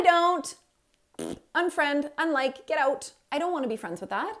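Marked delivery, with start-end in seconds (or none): none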